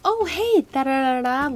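high, loud, bubbly mock greeting; sing-song fake cheer; giddy greeting. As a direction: imitate the manager gushing over the new girl. Mimics manager's giddy greeting.

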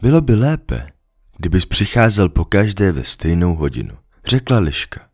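the fox patiently explaining to the little prince; lightly voiced fox. Fox imagines waiting happily.

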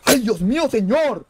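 high shriek easing into shaken cries; real frightened scream. Real, not acted. Gamer crying to God after a scare, screaming. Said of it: "¡Qué susto!".

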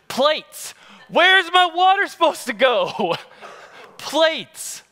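high, loud outraged disbelief; like finding plates where cups belong; shocked disbelief. Retold or imitated.

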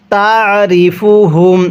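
তারিফুহুম with the আইন pressed in the throat; গলায় চাপ দিয়ে আইন; pressed throat ain. Shown as a demonstration. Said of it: "আইনটা সর্বদাই আপনারা গলার মধ্যে চাপ দিয়ে পড়বেন".

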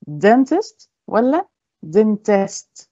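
slow, each dentist stressed differently; contrasting stress. Shown as a demonstration. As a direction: let them hear which syllable is loud. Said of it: "خدتوا بالكم الفرق؟". (نطق بطيء يوضح الفرق في النبر)

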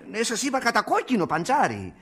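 high, insistent restatement; exasperated repeating. Acted. Brother repeats the symptom to the doctor, exasperated and high. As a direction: repeat it with rising impatience.

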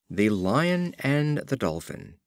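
slow, measured title announcement; title read. A narrator's reading. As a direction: set the title apart, slowly. Reads fable titles slowly.

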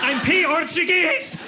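"Portuguese" as pee-ORTUGUESE, high and slow; name the P, then finish "Portuguese"; letter-split mispronunciation. Acted. Mocking the mistake, "Portuguese" broken into P-ortuguese. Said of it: "You don't say the letter I".

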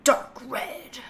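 whispered suggestion to herself; hushed musing. Real, not acted. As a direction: breathe the words out. Musing over colours.

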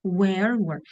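"Where were" as two distinct vowels; teacher modelling "Where were"; pronunciation model. Shown as a demonstration. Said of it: "Ви почули вимову?".

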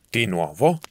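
short irritated snap; snapping. Acted. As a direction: bark it out, annoyed. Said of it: "scattò bruscamente Von Ruda". (scatto brusco e irritato)

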